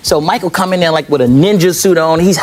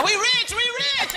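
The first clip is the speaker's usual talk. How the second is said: imitating family; 8 dB quieter, slower than usual. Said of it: "It's my".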